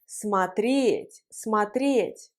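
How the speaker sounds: смотреть stressed on the final е; stress on the ending. Shown as a demonstration. Teacher showing learners the accent, смотреть stressed on final е. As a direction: lean on the "ye" in смотреть. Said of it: "L'accent sur le yé".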